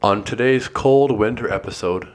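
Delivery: slow, hammed-up podcast intro. Shown as a demonstration. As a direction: read it like a cheesy radio host. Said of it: "Can you say the first line of that again? Just the really funny part?".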